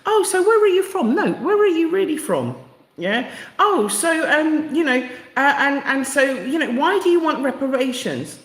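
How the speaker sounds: mock white questioner. Host mocking white people asking where she's really from. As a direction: mimic the condescending interviewer. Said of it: "You do know what I'm talking about".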